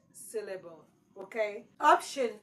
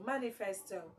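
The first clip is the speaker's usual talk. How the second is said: softer Manifesto, weight on the first syllable; stress on MA; 6 dB quieter than usual. Shown as a demonstration. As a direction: repeat it as MA-nifesto. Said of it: "your stress is on ma".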